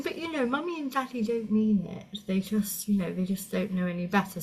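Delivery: mock sugary reassurance; nicey-nice. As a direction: make excuses for the parents sweetly. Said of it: "she was being all really nicey nice about it".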